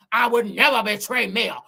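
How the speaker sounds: emphatic hammed-up protest; rival's indignant voice. Acting the rival swearing loyalty, overdone indignation. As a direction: push hard on the denial. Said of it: "reading the girls and Nell voice".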